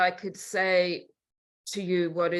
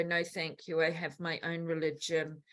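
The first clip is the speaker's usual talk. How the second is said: soft, low-key polite refusal; 3 semitones lower, 9 dB quieter than usual. Retold or imitated. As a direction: decline courteously, keeping the volume down. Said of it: "I'm very polite".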